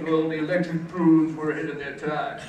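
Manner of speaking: lightly put-on pompous defense; a hint of stuffy music snob; Scott. College rival defending an embarrassing album, mildly pompous. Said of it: "he would talk like this about it".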